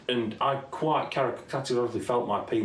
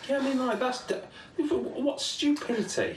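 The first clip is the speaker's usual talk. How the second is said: incredulous scorn; 13 semitones higher than usual. Real, not acted. Mocking the film's stupidity.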